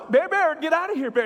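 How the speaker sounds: retold scared call, still finding the voice; scared yelling. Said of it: "I'm trying to find my voice, but I'm really scared".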